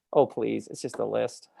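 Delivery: soft, dropped-away brush-off; quietly dismissing your own excitement; acted dismissiveness. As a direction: wave it off under your voice. Acts out dismissing the honour.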